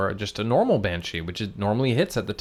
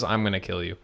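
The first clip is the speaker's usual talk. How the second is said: put-on Russian accent; 3 semitones lower, 5 dB quieter than usual. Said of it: "in a Russian accent".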